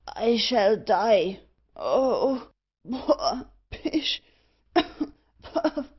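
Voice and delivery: slow wail broken by coughs; choking. Acted. Thorneycroft cries he shall die in smoke, choking. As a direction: puff and splutter between drawn-out words.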